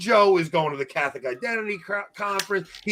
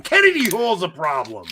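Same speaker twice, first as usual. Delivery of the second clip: raised voice, emphatic accusation; angry rant; 4 dB louder than usual. Real, not acted. Accusing a rival podcaster on air, angry. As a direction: hammer the name home. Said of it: "I'm angry".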